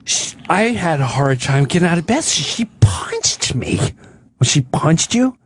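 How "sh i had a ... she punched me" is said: lightly voiced feeble old woman; imitating frail mother. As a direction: trail into a near-whisper as the aggrieved mother. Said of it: "This is what she said".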